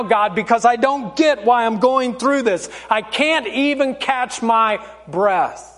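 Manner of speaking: mildly frustrated plea to God; earnest prayer with a touch of anger; honest anguished prayer. Acted. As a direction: pour it out to God, slowing at the end. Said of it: "Your prayer should sound like this".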